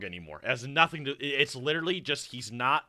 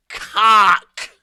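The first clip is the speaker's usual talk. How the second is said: big shouted Cock, pitched way up; loud yell; 6 semitones higher, 12 dB louder than usual. Pretend. Streamer bellowing the word to teach the narrator, loud yell. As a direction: bellow it as loud as you can. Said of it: "just say it real loud".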